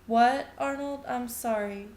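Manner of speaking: loud, high startled "What"; jolted out of a daze. Acted. Woman startled when Arnold asks about the number.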